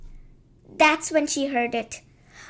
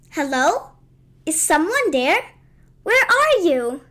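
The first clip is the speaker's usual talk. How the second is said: searching call, growing louder; 4 dB louder than usual. Acted. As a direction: call out into the woods. Calling out to a hidden voice.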